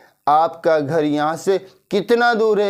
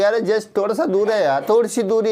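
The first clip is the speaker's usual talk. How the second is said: casual sloppy reply; 4 semitones higher than usual. Shown as a demonstration. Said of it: "ऐसे नहीं बोलने के बजाय".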